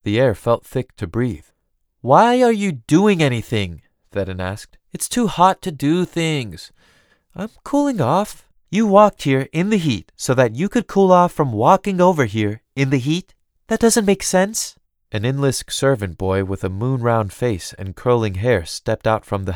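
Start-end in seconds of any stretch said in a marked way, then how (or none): 2.0-3.8 high, loud-edged lazy complaint; lightly voiced idle young noblewoman; languid cousin. Theron questions Elaine by the fountain on a hot day, languid complaint. 4.9-14.8 languid, teasing cousin. Acted. Theron chides Elaine for walking in the heat, teasing disbelief.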